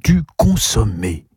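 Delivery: slow, savouring delivery; pleased, drawn-out appreciation; satisfied. A narrator's reading. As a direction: relish each syllable. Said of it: "dit Gabriel avec satisfaction".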